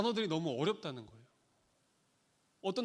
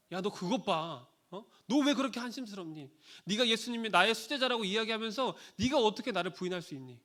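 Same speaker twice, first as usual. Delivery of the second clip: raised, exasperated scolding of a failed disciple; scolding rebuke; 2 semitones higher, 4 dB louder than usual. Retold or imitated. Jesus rebuking Peter for denying him, a raised scolding. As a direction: lay into him for letting you down. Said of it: "라는 눈빛을 보내지 않으셨다".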